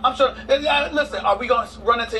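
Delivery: laughing. Real, not acted. Laughing repeat.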